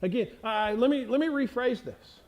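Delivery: normal talking voice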